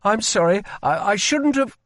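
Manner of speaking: ashamed, fumbling for words; guilty apology. Acted. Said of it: "he said guiltily".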